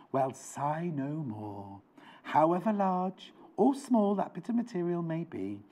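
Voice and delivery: a lightly storyteller-ish read of the blurb; Jackanory storytelling. Acted. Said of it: "Jackanory now".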